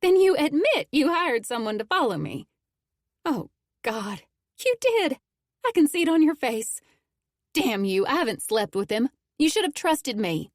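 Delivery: high, loud accusing outburst; furious accusation at her lover. A narrator's reading. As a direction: throw the accusation in his face. Acted quarrel, accusing outburst.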